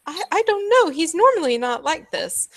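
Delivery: fretful showman. Acted. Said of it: "And he's".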